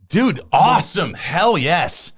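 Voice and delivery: high, drawn-out cheer; thrilled congratulation. Real, not acted. Host cheering guest's million views, thrilled. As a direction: stretch the words out with real delight, pitch swooping up.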